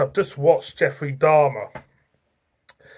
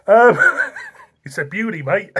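words breaking into real giggles; fighting back the giggles; giggling; 5 semitones higher, 4 dB louder than usual. Real, not acted. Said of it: "Getting the giggles".

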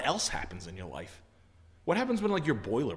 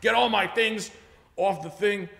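high, slow, whiny demands; the customer bossing the salesman around, in a high whiny voice; bossy customer; 10 semitones higher, 8 dB louder, slower than usual. Retold or imitated. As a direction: order Brian around like a spoiled client. Demanding customer ordering Brian around.

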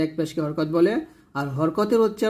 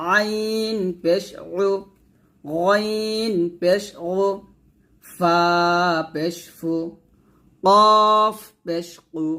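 slow, even recitation of each letter and vowel mark; measured teacher's recitation; spelling drill; 2 semitones higher, much slower than usual. Shown as a demonstration. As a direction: chant it out for pupils to repeat.

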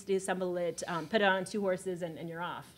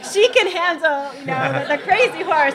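imitated horsemen; 9 semitones higher, 10 dB louder than usual. Horsemen quoted.

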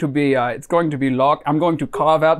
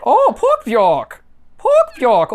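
slow, then leaping way up high and louder; savoring the name; 9 semitones higher, 5 dB louder, much slower than usual. Pretend. Caller delighting in the silly dish name, high and loud. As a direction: relish the words, soaring high.

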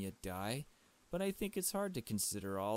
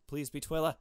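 louder, higher hopeful plea; begging the game to show Twila; eager plea; 5 semitones higher, 6 dB louder than usual. Real, not acted. Player pleading the game to show Twila, louder and higher.

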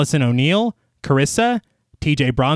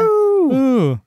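zombie groan; 10 semitones higher than usual. Pretend. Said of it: "Should we be making zombie noises?".

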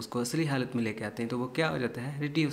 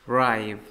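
राइव said louder with emphasis; राइव loud and emphatic; stressed rive; 7 dB louder, slower than usual. Shown as a demonstration. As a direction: punch राइव hard. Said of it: "राइव पे ज़ोर देना".

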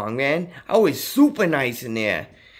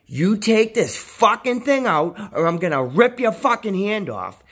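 retold threat; 5 semitones higher than usual.

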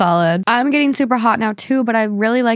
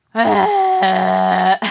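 odd groan. Real, not acted. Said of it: "I love that sound".

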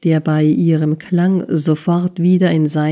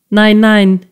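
wailing; 3 semitones higher, 5 dB louder than usual. A narrator's reading. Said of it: "jammerte der Bursche".

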